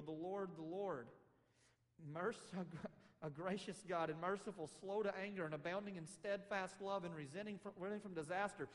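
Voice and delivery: worship song. Acted. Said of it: "like the great worship song of Israel".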